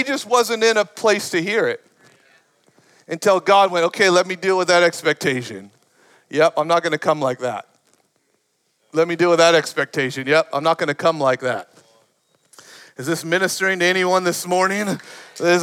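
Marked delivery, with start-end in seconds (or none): 3.9-7.7 quick, low, matter-of-fact aside; brisk, casual God. Acted. Preacher voices God dismissing each expectation, brisk and casual. 8.9-11.7 quick, low, matter-of-fact aside; brisk, casual God. Acted. Preacher voices God dismissing each expectation, brisk and casual.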